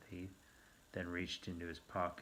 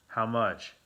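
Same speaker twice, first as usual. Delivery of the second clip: sharp demand; 4 semitones higher, 10 dB louder than usual. A narrator's reading. Narrator alarmed at cost.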